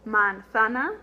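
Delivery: manzana with open ah vowels; Spanish manzana. Shown as a demonstration. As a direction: say manzana with each A as ah. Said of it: "our word for apple".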